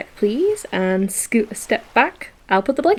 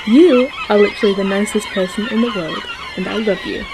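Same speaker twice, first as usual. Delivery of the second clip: laughing; faster than usual. Real, not acted. Laughing thanks to partner.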